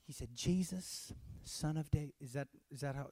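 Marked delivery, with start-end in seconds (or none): 0.3-2.1 softly, far too mildly; understated mock plea. Shown as a demonstration. Preacher wrongly imitating blind Bartimaeus, too softly. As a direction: say it politely small, nothing like a shout. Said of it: "is that an accurate example?".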